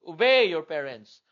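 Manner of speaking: firm command. Real, not acted. Commanding the children.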